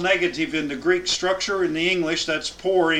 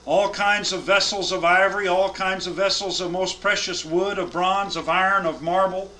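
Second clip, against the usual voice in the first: raised, measured Bible reading; solemn scripture reading to a class. Acted. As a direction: read the verses out with weight. Reads scripture aloud.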